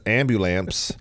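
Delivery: "ambulance" as AM-byoo-lamps; little kid's mispronunciation. Retold or imitated. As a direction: imitate a kid saying "ambulance" with a final MPS. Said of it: "when a little kid says".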